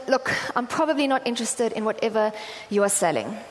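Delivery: mildly irritated brush-off. Retold or imitated. Busy preacher to supposed saleswoman, mildly irritated. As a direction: dismiss the caller with restrained annoyance. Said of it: "it's very clear that I'm very irritated".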